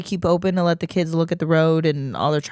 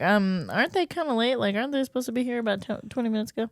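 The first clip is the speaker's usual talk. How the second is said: mock impatient kid voice, higher and fast; 5 semitones higher, 6 dB quieter, much faster than usual. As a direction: play a fidgety kid asking why the deer are late. Mocking kid waiting for deer.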